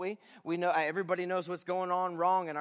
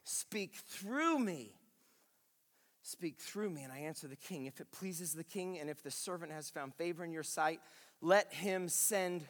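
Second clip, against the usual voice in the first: preacher voicing Nehemiah's quiet prayer; hushed prayer; 7 dB quieter than usual. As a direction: pray it quietly, almost to yourself.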